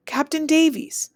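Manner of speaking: high, slow calling shout. Acted. Messenger calling from the river, shouting. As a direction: call out across the river. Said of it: "The shout wakes me up".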